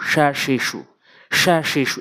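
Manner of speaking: "সা, শি, সু" with a hushing sh; correct Shin. Shown as a demonstration. Teacher modelling Shin for learners, hushing sh. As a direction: say "সা, শি, সু" as sha, shi, shu. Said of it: "এভাবে উচ্চারণ করবেন".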